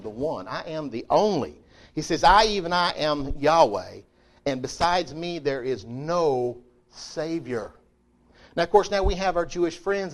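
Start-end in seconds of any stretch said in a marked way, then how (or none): 2.2-7.7 solemn scripture reading. Acted. Reading God's words slowly.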